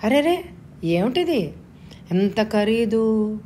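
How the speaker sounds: wife aghast at the saree bill, dismayed and slow. Acted. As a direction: ask the cost like it pains her. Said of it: "దిగులుగా ముఖం పెట్టింది సత్య".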